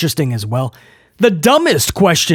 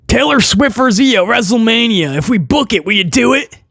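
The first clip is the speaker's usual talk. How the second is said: higher-pitched parody of a questioner; mock reporter; 4 semitones higher than usual. Reporter putting a stupid question to E O, mocked. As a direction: pitch the silly question up high, mockingly.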